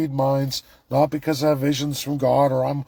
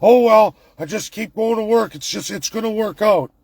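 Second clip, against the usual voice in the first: higher, louder mock nonchalance; mock carefree Canadian; 6 semitones higher, 4 dB louder than usual. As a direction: shrug it off in a parody voice. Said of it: "Canadians go".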